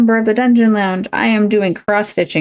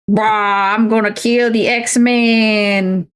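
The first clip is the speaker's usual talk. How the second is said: lightly voiced New Orleans accent, slow villain threat; a hint of a Cajun New Orleans drawl, slow; 3 semitones higher, much slower than usual. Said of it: "but with a accent from New Orleans".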